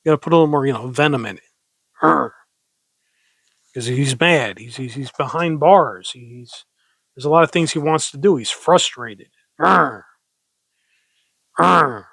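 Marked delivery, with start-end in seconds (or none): 2.0-2.3 short mock growl, a bit louder; playful growl. Shown as a demonstration. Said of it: "go growl a little bit". 9.6-12.1 short mock growl, a bit louder; playful growl. Shown as a demonstration. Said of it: "go growl a little bit".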